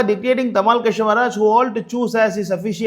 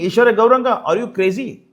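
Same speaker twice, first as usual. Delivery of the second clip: loud name, then incredulous question; direct challenge; 2 semitones higher, 4 dB louder than usual. Real, not acted. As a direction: confront an opponent by name, in real disbelief. Challenges his opponent by name directly.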